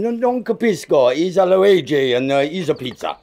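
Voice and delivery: flustered hammed-up Italian accent, with a laugh; nervously cling to the Italian act; comic Italian accent, laughing it off; fake Italian accent. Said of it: "They just forced me to do the accent".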